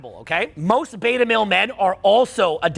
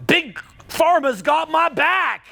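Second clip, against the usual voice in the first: mocking naive voice; 6 semitones higher, much slower than usual.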